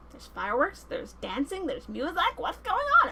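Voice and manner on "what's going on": high, giggling and thrilled; giggly excited. Acted. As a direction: squeal it with a laugh of delight. Ariel sees the party.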